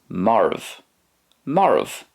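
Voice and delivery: "morv" said as MOR-uv, rolled r; Irish word said slowly. Shown as a demonstration. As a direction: model the Irish "morv" clearly. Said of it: "the Irish for dead is".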